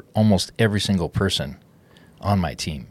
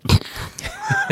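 startled sputter at bad coffee; while sipping a drink. Real, not acted. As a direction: react to a sip of stale coffee. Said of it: "at the reaction you're giving".

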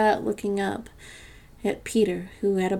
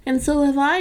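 higher-pitched, keen echo; eager exclamation; 6 semitones higher, 4 dB louder than usual. A narrator's reading. Another child echoing Peter's agreement, eager exclamation. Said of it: "exclaimed another".

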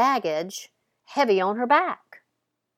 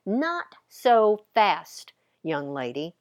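mock booming mother; slower than usual. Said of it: "a booming response".

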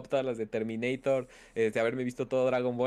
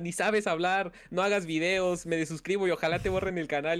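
higher, indignant scolding commenter; mock angry commenter; 4 semitones higher than usual. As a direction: play the offended fan correcting him. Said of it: "pero así bien enojados". (comentarista indignado, burlón)

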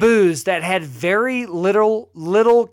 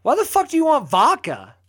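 incredulous. Retold or imitated. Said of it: "And I'm like".

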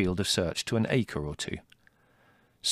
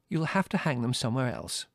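fussy mother; 3 semitones higher than usual. Acted. Mother continues.

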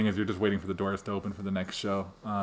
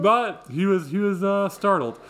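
higher, louder emphatic telling; high startled voice; 9 semitones higher, 4 dB louder, slower than usual. Real, not acted. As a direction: lift the voice in disbelief. Describing terrified child, voice spikes.

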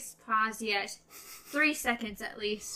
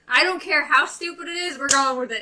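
loud, higher mock-stubborn voice; imitating Roland; 4 semitones higher, 7 dB louder, faster than usual. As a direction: play him as stubborn and cheerfully defiant. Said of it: "He's like".

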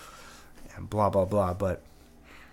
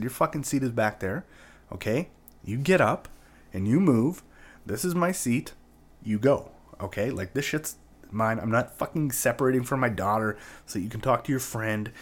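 heated, raised retelling of the telling-off; cursing, fed up; 2 semitones higher than usual. Retold or imitated. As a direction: tell the seat taker off, moderately heated. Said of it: "I started cursing a little bit".

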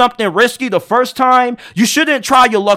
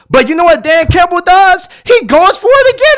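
rising high and louder in disbelief; incredulous build-up; 7 semitones higher, 4 dB louder than usual. Real, not acted. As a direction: sell the shock of going for it. Building to shocking decision.

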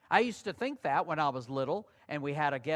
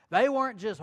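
normal talking voice

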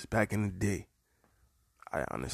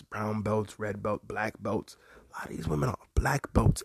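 whisper; 7 dB quieter than usual. Real, not acted. Confides that the women are dangerous.

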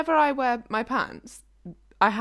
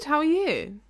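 whisper; 4 semitones higher, 3 dB quieter than usual. Pretend. Both whisper back and forth.

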